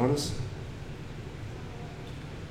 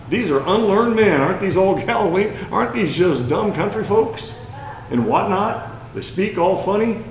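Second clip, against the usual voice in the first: mocking crowd; 6 semitones higher than usual. Crowd sneers at the apostles.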